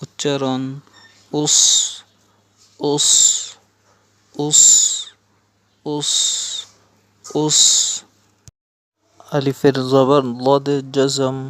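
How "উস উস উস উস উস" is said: heavy sad in "us", held long; "us" repeated singly, with pauses; drilled sad "us". Shown as a demonstration. Teacher shows alif pesh sad jazm, drilling "us". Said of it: "আলিফের পেশ সদের জজম".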